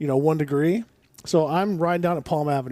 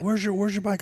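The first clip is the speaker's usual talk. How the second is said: higher-pitched mimicked Portuguese accent; 5 semitones higher than usual. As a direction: lightly imitate a Portuguese man's accent. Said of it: "speaking in this hard Portuguese accent".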